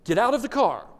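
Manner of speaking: a fed-up dad repeating the order; parent yelling. Retold or imitated. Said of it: "you yell".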